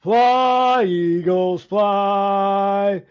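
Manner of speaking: hoarse, strained chant with no voice; raspy whisper. Real, not acted. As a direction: croak out the fight chant slowly. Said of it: "That's about the best I got right now".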